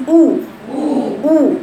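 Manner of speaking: «أو» بشفتين مضمومتين تمامًا; انطق «أو» كالواو بضم الشفاه; ضمة صحيحة. Shown as a demonstration. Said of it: "ده الصح". («أو» مضمومة وممتدة للأمام)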